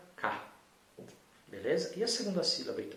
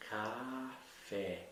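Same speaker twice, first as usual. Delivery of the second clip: "Café" split slowly into ca... fé; slow, syllable by syllable; 2 semitones lower, 4 dB quieter than usual. Shown as a demonstration. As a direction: stretch both syllables of "Café" with a gap between. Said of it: "a sílaba K e a sílaba fé". ("Café" devagar, sílaba por sílaba)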